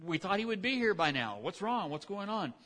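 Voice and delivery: bewildered, waiting for a no-show god; frantic prophets. Acted. Prophets calling to Jezebel, high anxious bewilderment. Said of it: "they're saying".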